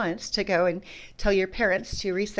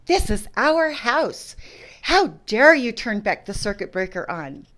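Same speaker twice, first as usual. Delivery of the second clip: retold angry yelling; 6 dB louder than usual. In-laws yelling at her over the circuit breaker, slow mock yell. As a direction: stretch it out like a scolding yell. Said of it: "they were yelling".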